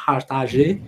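Hartage ending in "ta-zhay"; French-style pronunciation. Shown as a demonstration. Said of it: "não sei como se pronuncia".

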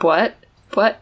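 What with a W sneaking in, like hwhat; odd Utah what. Shown as a demonstration. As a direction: say What? with a breathy W onset. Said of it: "I'll say, like".

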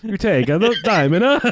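high mock Italian with added vowels; fake Italian accent. Shown as a demonstration. Showing a friend how to speak Italian, parody Italian accent. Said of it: "throw an A at the end".

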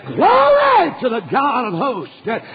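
put-on young David shouting praise to God before the battle; mild shout. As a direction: call out glory with a stretched, lifted voice. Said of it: "and he shouted".

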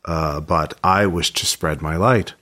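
slow, solemn divine voice; a dreaming god speaks, slowly. Acted.

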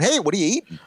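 high, nosy kid voice, imitated; Julia. Daughter pestering diners at the next table, high imitated kid voice. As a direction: imitate a young daughter butting in on strangers. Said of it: "she has no boundaries".

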